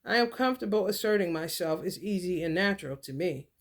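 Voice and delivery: deliberate, evenly spoken affirmation. Shown as a demonstration. Teaching viewers their affirmation, measured and deliberate. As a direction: recite it like a mantra. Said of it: "This is what you're gonna be saying".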